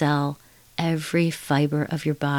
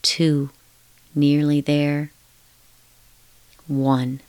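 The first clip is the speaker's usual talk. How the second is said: slow soothing countdown; slower than usual. Acted. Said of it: "I'm going to count now".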